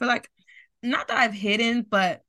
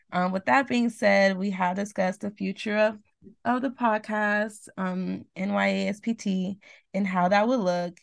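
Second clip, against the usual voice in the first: scripted read. Real, not acted. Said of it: "I'm gonna sound very scripted".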